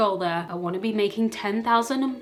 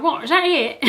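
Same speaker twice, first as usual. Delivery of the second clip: mock unimpressed parents; 5 semitones higher, 4 dB louder than usual. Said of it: "They'd be like".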